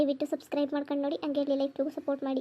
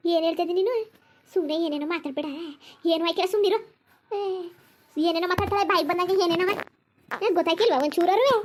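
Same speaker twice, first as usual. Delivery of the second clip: louder and higher, building irritation; exasperated scolding; 3 semitones higher, 4 dB louder than usual. Acted. Relative scolding the weeping mother to stop, rising exasperation. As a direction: snap at her to stop talking nonsense.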